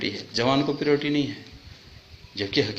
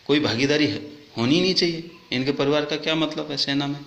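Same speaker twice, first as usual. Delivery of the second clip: raised, emphatic objection; indignant; 4 semitones higher than usual. Real, not acted. Telling viewers officers' families have no place in the army, indignant. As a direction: protest it with real indignation, pitched up.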